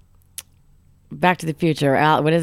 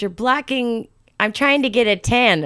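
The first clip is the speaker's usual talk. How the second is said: snooty sunbather; 4 semitones higher, slower than usual. Retold or imitated. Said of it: "Or she says".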